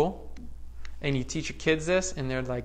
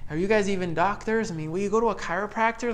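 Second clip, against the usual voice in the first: mock skeptic; 5 semitones higher, faster than usual. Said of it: "mocking what people ask".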